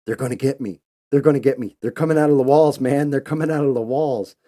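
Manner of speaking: terrified panic. Retold or imitated. Tripping under the bed, panicking to his buddy, rising terror. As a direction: panicky pleading that builds to a high, loud wail. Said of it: "he said I was shivering, like, shaking".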